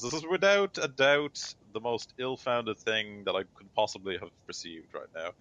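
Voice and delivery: mildly indignant official, pitch jumping up at the start; lightly acted formal protest; indignant Stern. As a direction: object with a touch of outrage. Stern objects to the witness.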